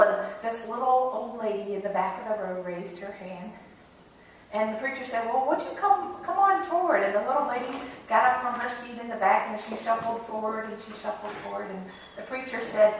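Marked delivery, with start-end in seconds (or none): 5.3-7.0 coaxing invitation. Acted. Preacher invites old lady forward.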